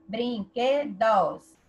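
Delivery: "Brinquedos" slowly split into brin-que-dos; syllable by syllable. Shown as a demonstration. Teacher preparing to count from the end, "Brinquedos" slowly separated into syllables. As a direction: stretch each syllable of "Brinquedos". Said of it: "Do fim?".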